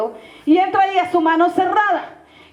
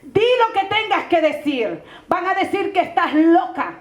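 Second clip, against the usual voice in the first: solemn prophecy. Retold or imitated. Praying woman gives the pastora God's message, solemn and deliberate. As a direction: pronounce each command deliberately, with long pauses.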